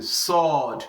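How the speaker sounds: "sword" drawn from the throat; heavy, emphatic "sword". Shown as a demonstration. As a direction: say "sword" with a heavy Arabic s and long vowel. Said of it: "From our throats when pronouncing".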